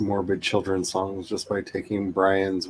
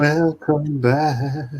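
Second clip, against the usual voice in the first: drawn-out welcome; 5 semitones higher, slower than usual. Pretend. Drawn-out greeting again.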